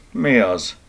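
a touch of boredom; mildly uninterested query. Acted. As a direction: answer as if you can't be bothered. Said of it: "kérdezte unottan".

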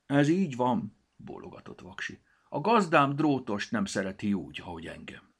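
high, loud little character voice; timid little glasses, hopeful; high-pitched small character asking; glasses Vaksi. Acted. Vaksi explains.

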